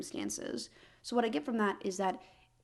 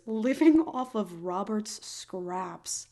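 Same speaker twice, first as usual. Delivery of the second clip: mock pitiful; 3 dB louder, much slower than usual. Real, not acted. Slow mock-pitiful line.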